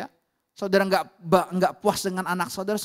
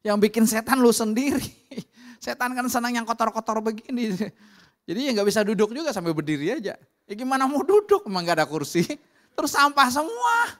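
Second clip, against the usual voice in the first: scolding rebuke; 3 semitones higher, 4 dB louder than usual. Retold or imitated. Preacher scolding the homeowner.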